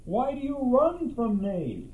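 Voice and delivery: soft, distant-sounding call; perplexed call. Acted. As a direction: call out, puzzled, to someone hidden. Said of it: "he called out".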